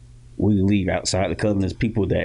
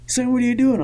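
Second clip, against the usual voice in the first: put-on drunk dad; faster than usual. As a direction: bellow it like a tipsy father at 2am. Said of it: "He's like".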